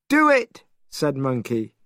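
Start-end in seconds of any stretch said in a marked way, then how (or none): 0.1-0.6 bold dare. A narrator's reading. Brave Monkey dares king.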